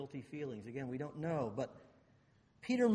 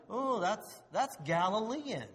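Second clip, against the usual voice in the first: higher-pitched acted realization; dawning recognition; 5 semitones higher than usual. Bystanders recognizing Peter's dialect, dawning recognition. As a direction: play a bystander suddenly placing the accent.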